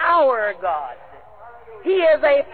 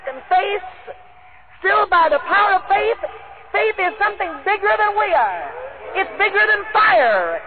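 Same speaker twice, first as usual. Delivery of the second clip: preaching climax; 6 semitones higher than usual. Real, not acted. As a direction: drive it home over the congregation.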